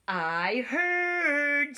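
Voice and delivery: high bird voice. A narrator's reading. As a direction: chirp it like a bird. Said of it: "said the bird".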